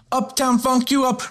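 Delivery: belted song line; shouted hook. Pretend. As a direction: belt the hook out.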